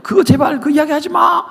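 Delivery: high, squealing devil begging, rising to a shout; devil pleading. Retold or imitated. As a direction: whine like a desperate devil begging him to stop. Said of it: "지금 마귀가 들으면서".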